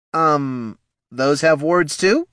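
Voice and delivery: high, slow hesitant voice; a nervous guard backing down. Acted. Guard unsure.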